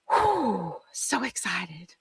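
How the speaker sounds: soft, slow, breathless whisper. Real, not acted. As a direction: whisper it to yourself, slowly.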